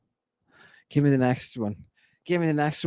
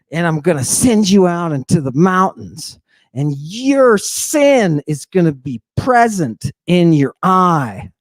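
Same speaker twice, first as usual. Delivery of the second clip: priest's pronouncement. Retold or imitated. Priest's judgment continues.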